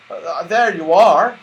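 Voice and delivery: lightly voiced Moonface. A narrator's reading. Moonface showing the children his room, mild friendly voice. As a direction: show the way, lightly characterful.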